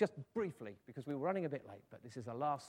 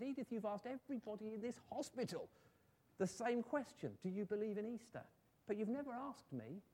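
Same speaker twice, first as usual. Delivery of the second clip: wistful complaint; 7 semitones higher than usual. Acted. Phyllis puts a wistful question to Edith.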